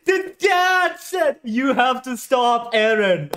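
squealing with disbelief at the twist; excited high voice. Real, not acted. Fan reacting to a shocking scene, voice high and thrilled. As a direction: pitch jumps way up in stunned excitement. Stunned by twist while watching.

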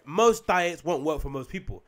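slow, weighty stress on "Most diets"; stressed for emphasis. Real, not acted. Podcaster driving home the book's point, "Most diets" slowly stressed. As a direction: hammer home "Most diets won't work" word by word. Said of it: "it needs to be stressed".

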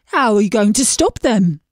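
a gloomy fish sighing over its looks. A narrator's reading. Fish to the princess, gloomy and self-pitying. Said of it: "fish asks".

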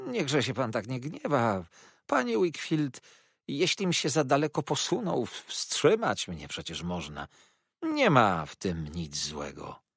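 smooth it over, starting high and easing down; placating. Acted. Jurajach trying to pacify angry Wakefield, placating. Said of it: "chcąc wszystko to zapewne załagodzić".

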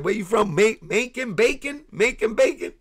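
high, loud mock double take; incredulous Macon or Bacon; retold confused disbelief. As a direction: play it like you misheard him. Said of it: "And I said".

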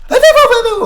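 very high, loud babbled yelp; panicked squeal. Real, not acted. Gamer fleeing an attacker, panicked squealing. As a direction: squeal stammered syllables in alarm.

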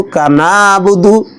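কানাবুদু run together, ain dropped; wrong kanabudu. Shown as a demonstration. Teacher mimics a common mispronunciation, কানাবুদু. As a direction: merge it into কানাবুদু as a mistake. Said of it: "অনেকে পড়ে".

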